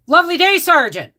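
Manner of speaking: high, loud, bright greeting; chirpy young private. Retold or imitated. Young private greeting his sergeant, high and chirpy.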